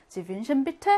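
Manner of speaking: "Sie wünschen bitte?" lifted at the end; rising question ending. Shown as a demonstration. Teacher shows how to ask a customer's order, rising question ending. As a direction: raise the pitch on "bitte?" as a polite question. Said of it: "끝을 좀 올려주면서".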